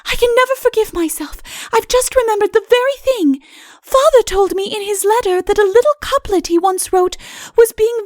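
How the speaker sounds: high, light princess voice. Acted. Princess musing aloud to Udo. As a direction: lift the voice up for the young princess.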